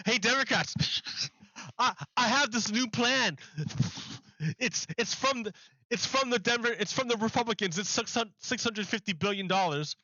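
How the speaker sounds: high, laughing taunt through the words; mocking laughing offer. Manchin taunting the Democrats, laughing and high-pitched. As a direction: gloat and chuckle while offering the deal. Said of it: "And he's, like, laughing".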